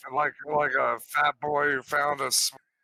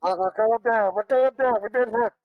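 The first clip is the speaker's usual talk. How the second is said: high, loud panicked announcer; joking mock news alarm; mock crash announcement; 9 semitones higher, 8 dB louder, faster than usual. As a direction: play a pilot going down, half laughing.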